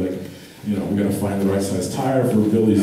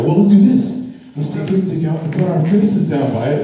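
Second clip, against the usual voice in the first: louder, higher, pushy urging; eager pitch; 4 semitones higher, 3 dB louder than usual. Retold or imitated. Urging his friends into a prank, loud and eager. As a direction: sell the prank loudly to the guys. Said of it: "I go".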